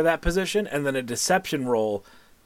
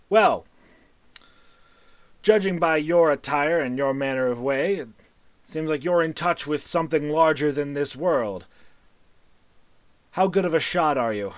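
wizard voice; 2 semitones higher than usual. Acted. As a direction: hail the stranger like a theatrical mage. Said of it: "And he goes".

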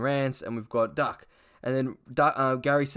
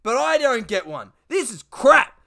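whiny Duck; 9 semitones higher, 10 dB louder than usual. Retold or imitated. Duck complaining about Shane Warne, high loud whinge. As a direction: whinge it pitched way up. Duck voiced in retold sketch.

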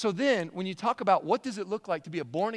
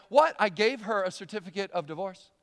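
mock self-satisfied man, higher and louder; smug self-praise; 4 semitones higher, 4 dB louder than usual. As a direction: play the smug husband pleased with himself. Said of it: "patting himself on the back going".

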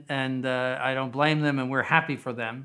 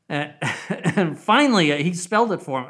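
usual speaking voice

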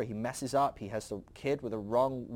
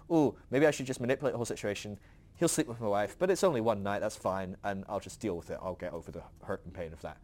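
talking himself into a bad plan, lightly voiced, fading; faithless excuse; 5 semitones lower than usual. Faithless person voiced, fading away.

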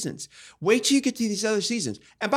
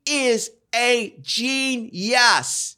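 gushing; 6 semitones higher, much slower than usual. Real, not acted. Gushing praise.

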